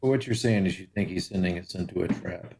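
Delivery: low, quiet sinister tone. Acted. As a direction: make it sound ominous. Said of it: "you throw out a sinister voice".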